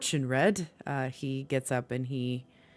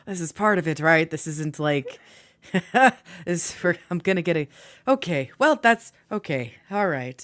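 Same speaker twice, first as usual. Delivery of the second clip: nervous; 3 semitones higher, 6 dB louder than usual. Acted. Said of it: "Talivar just kind of almost nervous".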